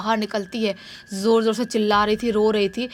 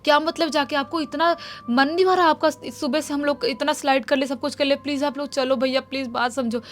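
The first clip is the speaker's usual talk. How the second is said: higher, begging through mild tears; tearful pleading; 4 semitones higher than usual. Acted. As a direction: plead with brothers, near crying. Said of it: "रोती है".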